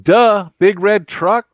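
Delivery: hammed-up airhead answering; mock-dumb, drawn out; dumb blonde voice. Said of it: "And she says".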